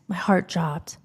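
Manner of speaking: breathy hushed gasp of dread; stunned whisper; shocked whisper. Real, not acted. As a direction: whisper it as your heart sinks. Heart dropped at the news.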